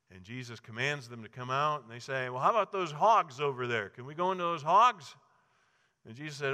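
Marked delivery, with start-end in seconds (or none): 2.3-5.1 high, loud pleading bargain; wheedling demons. Acted. Demons asking Jesus for the hogs, loud and high. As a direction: beg like cornered demons.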